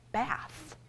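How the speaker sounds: softly breathed "bath". Shown as a demonstration. Librarian shows the sign word, softly. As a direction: say "bath" gently, almost breathed. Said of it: "that's how we say".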